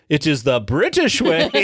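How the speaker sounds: lightly imitated pompous headmaster; proud proclamation tipping into laughter; retold corrected proclamation. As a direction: restate it firmly, leaning on BRITISH. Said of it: "whispers in your ear and he goes".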